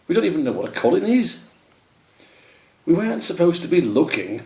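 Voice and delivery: high, fast bickering; squabbling hedgehogs. Acted. Hedgehogs squabble about Colin, high bickering. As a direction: bicker quickly.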